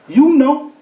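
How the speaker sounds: high knowing parrot quip. Acted. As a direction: deliver the punchline smugly. Parrot's punchline.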